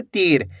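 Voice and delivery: तीर with the ee held; long ee in तीर. Shown as a demonstration. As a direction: stretch the vowel in तीर. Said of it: "खींच के".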